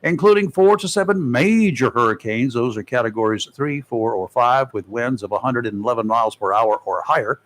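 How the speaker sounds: measured announcer read, key figures leaned on; presenting a forecast to listeners; radio weather report. Acted. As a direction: read it like a radio hurricane bulletin. Reads forecast and sponsor tip.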